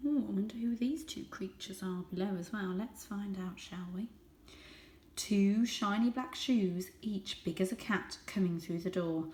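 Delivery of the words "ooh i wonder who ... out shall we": hushed conspiratorial aside; whisper. Real, not acted. Reader's aside to listeners.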